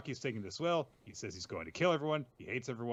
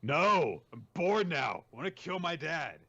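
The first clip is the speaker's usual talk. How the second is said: louder, whiny bored complaint; mock petulant Dabi; 4 semitones higher, 6 dB louder than usual. Host voicing Dabi whining to All for One. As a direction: whine that you're bored. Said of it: "Dabi's like".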